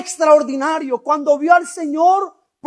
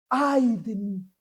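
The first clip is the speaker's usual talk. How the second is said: tearful lament; 6 semitones lower, 9 dB quieter than usual. Acted. Prophet cursing himself, voiced.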